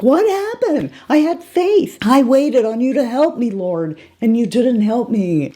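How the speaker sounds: high, aggrieved complaint; indignant drowned man. Retold or imitated. Drowned man at heaven's gates complaining to God, high and wounded. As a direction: plead with God, pitch way up, slowing at the end. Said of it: "And he's like".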